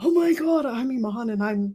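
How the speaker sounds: scattered, frantic gush with chaotic, frazzled energy. Noting Iman was very calm, the speaker plays a chaotic version, in a mock-chaotic Iman impression. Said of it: "there's none of that chaotic energy".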